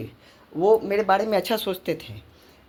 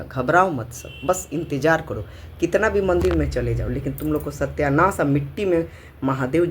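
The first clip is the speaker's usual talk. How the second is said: real angry scolding, louder than everyday talk; angry rant; 2 semitones lower, 4 dB louder than usual. Real, not acted. Mother cursing those who abused her children, angry scolding. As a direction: curse them with forceful, heated emphasis.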